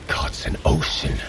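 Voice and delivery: hushed, staring at something vast; awed whisper. Acted. Thor gazes into the blood well, awed whisper. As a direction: breathe it out low in a whisper.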